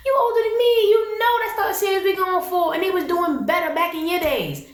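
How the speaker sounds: high-pitched, exasperated telling-off; scolding. Acted. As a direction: scold an older woman in disbelief. Scolding Miss Yolanda directly.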